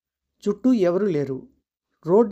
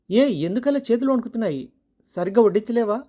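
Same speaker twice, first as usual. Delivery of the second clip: higher, sharp scolding; snapping husband; 3 semitones higher than usual. Acted. Husband scolding his wife as she serves, a mild mock shout. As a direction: scold her shaking hands. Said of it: "గట్టిగా అరిచాడు శ్రీధర్".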